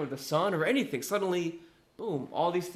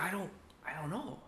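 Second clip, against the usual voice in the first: much softer, trailing i-don't-know; unsure reply; 3 semitones higher, 11 dB quieter than usual. Retold or imitated. Healed man telling neighbors he doesn't know, soft and unsure. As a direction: shrug it off, lost.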